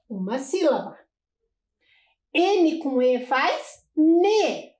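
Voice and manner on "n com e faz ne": slow, drawn-out spelling of each sound; slow syllable demo. Shown as a demonstration. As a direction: spell it out slowly for children. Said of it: "Olhem lá". (soletrando devagar)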